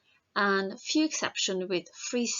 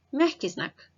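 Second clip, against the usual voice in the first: мягкий знак said higher, with a falling close; мягкий знак pitched up, then falling to finish; higher letter name; 5 semitones higher than usual. Shown as a demonstration. Teacher reviewing the alphabet again, higher. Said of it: "посмотрим эти буквы ещё раз".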